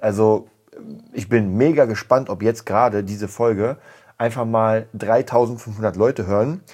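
a little tipsy, words slurring; slightly slurred speech. Real, not acted. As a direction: slur the words just slightly. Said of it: "mein leichtes Lallen".

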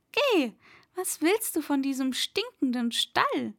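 lightly voiced girl, lifted pitch, coaxing a horse; a touch of eager urging; aufmunternde Fatima. (leicht angedeutete, aufmunternde Fatima)

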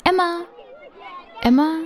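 high eager pleading calls; begging for autograph. Acted. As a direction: chase the star for a signature. Narrator begs star for autograph.

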